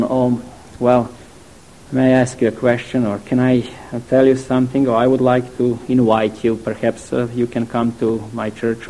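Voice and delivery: mock timid, hesitant asking. Preacher mocking a timid invitation to church, hesitant. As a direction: lightly imitate a shy, apologetic invitation. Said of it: "no, not in that tone".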